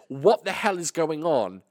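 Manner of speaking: slow mock outraged mum; mum's outburst. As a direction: drag it out like a stern mum. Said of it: "When she says".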